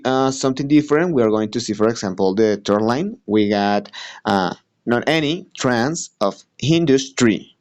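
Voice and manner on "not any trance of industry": "Not any trance of industry" in separated beats, pitched higher; trochaic scansion. Shown as a demonstration. Student showing a trochaic line, higher, measured scansion. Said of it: "That's, it's a trochaic".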